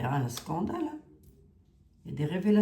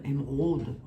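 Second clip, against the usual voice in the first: émeraude said with a Lorraine accent, lower pitch; 4 semitones lower than usual. Shown as a demonstration. Vlogger jokes by saying émeraude in her Lorraine accent. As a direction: put a Lorraine twang on émeraude. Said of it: "ouais, mon accent lorrain".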